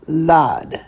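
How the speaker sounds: "Lad" said alone with a long ah; teacher modelling the syllable "Lad"; syllable demo. Shown as a demonstration. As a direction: sound out "Lad" as one slow syllable. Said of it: "So that will be pronounced".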